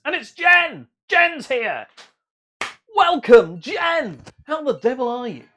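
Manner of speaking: loud, high welcome; real excited call-out; excited greeting. Real, not acted. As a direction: greet a friend who has just turned up, delighted. Greets arriving viewer Jen.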